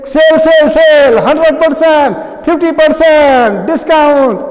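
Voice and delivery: hammed-up discount announcement; mock sale shout. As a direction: shout it like a market ad barker. Teacher acts out a sale ad.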